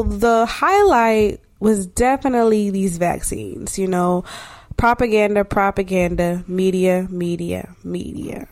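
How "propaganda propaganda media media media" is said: fading echo. Pretend. Repeated words fading out.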